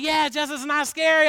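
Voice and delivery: loud mock reassurance. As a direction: hype him up loudly. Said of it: "And they're like".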